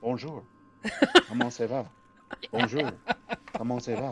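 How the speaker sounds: gurgling, bubbling, fluid-choked voice. Voicing the woman on the floor, speaking to the listener, in a gurgly voice. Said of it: "in a sort of a gurgly voice".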